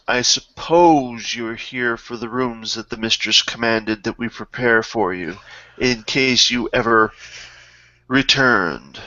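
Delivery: understated haughty servant, falling away at the end; a touch of grudging formality; lightly voiced disdainful manservant. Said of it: "with great disdain".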